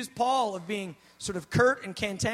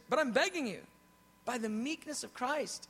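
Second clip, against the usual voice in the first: soft begging; 5 dB quieter than usual. Retold or imitated. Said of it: "He goes".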